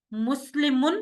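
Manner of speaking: مسلمن drawn out slowly, ending clearly shown; slow demonstration. Shown as a demonstration. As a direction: spell out مسلمن for students. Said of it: "اگر دو پیش ہیں".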